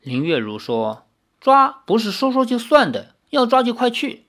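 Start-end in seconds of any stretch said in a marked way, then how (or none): 1.4-4.2 high, clipped impatient order; curt order. Acted. Lin sends Li off impatiently, higher. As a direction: push him out the door.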